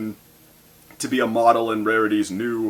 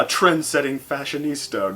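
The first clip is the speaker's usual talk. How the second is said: mock diva; 4 semitones higher than usual. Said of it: "borrowing a line from Auntie Mame".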